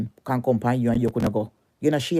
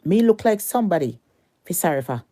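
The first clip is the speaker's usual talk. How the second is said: angry, scornful; 4 semitones higher than usual. Real, not acted. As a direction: spit the question back at her. Repeats the question, slower and louder.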